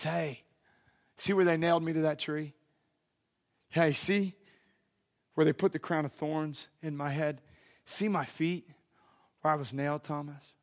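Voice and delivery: low, soft, unhurried phrases; hushed, gentle showing. Retold or imitated. Risen Jesus shows Thomas his wounds, low and soft. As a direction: drop right down, softly, with pauses.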